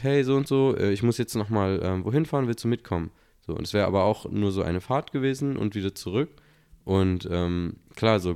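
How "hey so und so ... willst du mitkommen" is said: friend asking. Retold or imitated.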